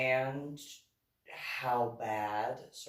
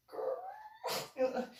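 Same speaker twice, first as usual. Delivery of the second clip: put-on drawn-out girl. Woman's drawn-out reply.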